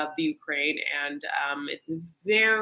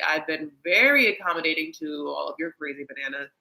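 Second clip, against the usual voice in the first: exasperated rant; 3 semitones higher, 6 dB louder than usual. Retold or imitated. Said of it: "He's like".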